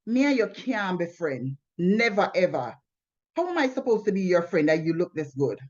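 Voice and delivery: light Jamaican patois, "Me and you can't be friend" with patois vowels; a hint of a Jamaican man's accent. Retelling his words to her in a lightly Jamaican accent. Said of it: "In Jamaican, you know, he said".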